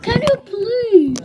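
high, loud, drawn-out whine; exasperated plea. Real, not acted. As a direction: plead slowly and loudly for cooperation. Child pleads with interrupting relatives.

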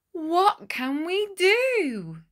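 high, loud, slow desperate cry; villagers crying out. Acted. Villagers crying to each other for help, loud and desperate. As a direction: wail it like a worried crowd.

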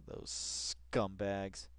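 drawn-out scornful sneer; slow contempt. Real, not acted. Streamer sneering at the network, slow contempt. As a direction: drag out the insult.

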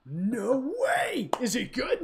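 high, excited whisper; playful secret whisper to the kid; mock whisper. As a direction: hush it like a conspirator. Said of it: "And I'm like".

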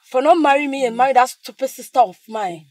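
jealous sister plotting loudly; bitter scheming. Acted. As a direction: spit out her jealousy. Jealous sister plots aloud.

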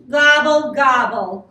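loud gobble, falling off; grumbling turkey. A narrator's reading. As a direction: grumble it out crossly. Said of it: "grumbled Turkey".

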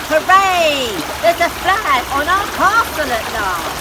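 loud happy cheer; dad delighted with his flag. Acted.

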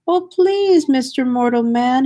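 high, whispered plea; pleading whisper. Acted. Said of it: "he pleaded".

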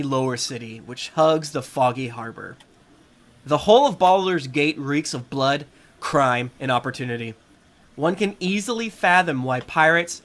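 measured scene-setting narration; story narration. Acted. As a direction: read it like a game master's intro. Reads the adventure intro.

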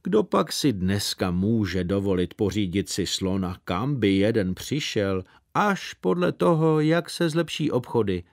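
a mildly cross father losing patience; irritated father. Retold or imitated. Father refusing the elephant, mildly annoyed. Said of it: "Tatínek odvětil zlostným hlasem".

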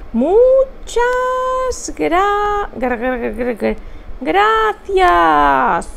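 mock stammer on "gra-"; "gra-, gra-, gra-" stuck on the syllable; stuttered thanks. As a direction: stammer the thanks as a playful joke.

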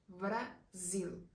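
"Brasil" with a strongly buzzed z in the middle; strong Portuguese z. Shown as a demonstration. Teacher demonstrating the strong z in "Brasil" for learners. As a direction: lean hard on the z of "Brasil". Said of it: "La Z y se le pronuncia muy fuerte".

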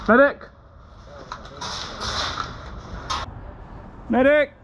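calling out for a medic; man down shout. Real, not acted. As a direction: yell for the medic.

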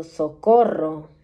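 imitating people crying for help, drawn out; cries for help. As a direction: call out for help the way the crowd does. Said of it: "Gente gritando".

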